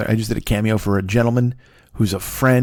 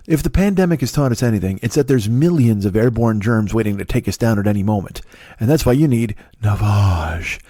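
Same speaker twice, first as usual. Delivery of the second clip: creepy ad voice; 2 semitones lower than usual. Retold or imitated. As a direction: mimic a creepy ad pitch. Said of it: "And he says".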